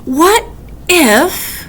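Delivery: spiral into worry, peak at the end; worried. Acted. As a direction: Weasel fretting about the wolf and wind. Weasel's worried what-ifs.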